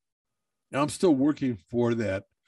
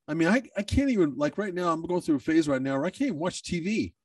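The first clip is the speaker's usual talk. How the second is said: choking up; 5 semitones higher than usual. Real, not acted. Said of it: "I'm constantly choking up".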